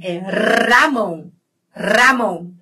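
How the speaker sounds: "Ramon" with a vibrating trilled r, slowly. Shown as a demonstration. Teacher contrasting the name with the food, trilled r. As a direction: roll the r of "Ramon" clearly. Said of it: "Vibrante, é com R".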